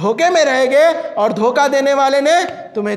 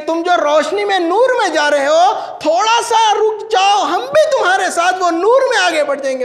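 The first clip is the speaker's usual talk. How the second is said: raised voice calling after those ahead; acted plea; 6 semitones higher than usual. Hypocrites asking the believers to wait for them, acted plea. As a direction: call out an urgent plea, pitched high.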